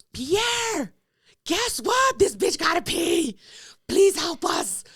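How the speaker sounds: high, whiny begging voice; pleading. Retold or imitated. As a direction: beg your brother sweetly to let you in. Begging the bouncer brother at door.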